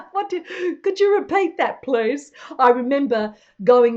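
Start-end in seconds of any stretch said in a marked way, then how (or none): 0.1-2.3 higher, polite asking; politely puzzled visitor; polite request. Retold or imitated. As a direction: ask them to repeat, sweetly. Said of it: "I have to say".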